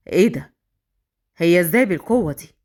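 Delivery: low-pitched, mildly amazed to himself; astonished inner thought. A narrator's reading. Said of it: "استغرب جدًا في نفسه".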